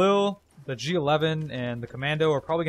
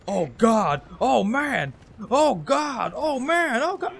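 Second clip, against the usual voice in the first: loud cries climbing higher; retold panic; 8 semitones higher, 5 dB louder, much slower than usual. Player reacting to his chopper shot down, hammed-up dismay. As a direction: wail it in mounting mock dismay. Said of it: "And I was like".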